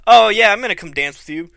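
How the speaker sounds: fast, loud, climbing to a high yell; badass Dean Ambrose. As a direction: hype it like a wrestler's catchphrase. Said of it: "He should be like".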